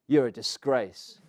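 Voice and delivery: slow, measured retort at everyday volume; retold echo of an insult, stretched out slowly; blurted insult. Batter looking back at the Aussie captain, slow blurted insult.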